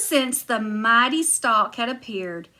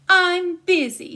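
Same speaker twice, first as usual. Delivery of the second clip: high, louder huffy giantess; 7 semitones higher, 5 dB louder than usual. Acted. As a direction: brush it off, pitched up.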